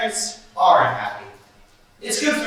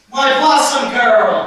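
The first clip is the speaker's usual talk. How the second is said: delighted greeting; 3 semitones higher, 6 dB louder, slower than usual. Acted. Greeting an old friend fondly.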